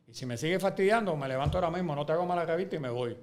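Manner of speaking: telling off a pushy colleague, heated and loud; angry threat. Retold or imitated. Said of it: "tuve una bronca".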